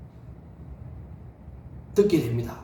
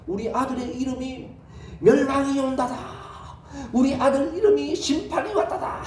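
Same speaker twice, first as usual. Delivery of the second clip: playful punchline; 5 semitones higher than usual. Acted. Enoch explaining son's name.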